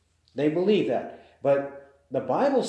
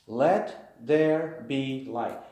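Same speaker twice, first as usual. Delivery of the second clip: slow, weighty let there be light; slow emphatic reading; 2 semitones lower, much slower than usual. Shown as a demonstration.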